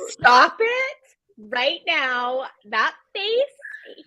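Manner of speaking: high, loud squeal of delight; gushing squeal. Real, not acted. Friend gushing over a cute kid's Santa photo, excited squeal.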